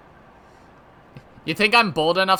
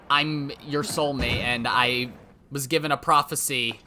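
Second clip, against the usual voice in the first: tender romantic; 2 semitones lower than usual. Retold or imitated. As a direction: lay it on like a movie lover. Acting dream soulmate speech.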